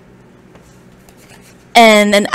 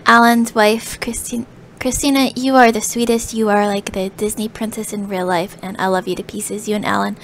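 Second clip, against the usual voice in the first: tearful quiet thanks; 5 dB quieter than usual. Real, not acted. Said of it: "'cause I'm crying again".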